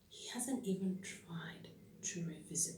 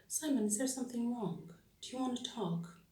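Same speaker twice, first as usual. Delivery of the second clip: higher, gently probing question; pitched up, inviting him to talk; concerned wife; 6 semitones higher, 4 dB louder than usual. Acted. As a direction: ask your husband with careful concern.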